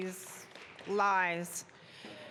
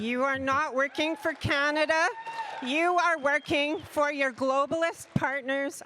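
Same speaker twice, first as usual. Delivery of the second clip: louder, hard, accusing heckler voice; angry accusation; 3 semitones higher, 5 dB louder than usual. Real, not acted. Heckler shouting at the Prime Minister that he betrays Canada, angry and loud. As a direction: hurl the charge at him.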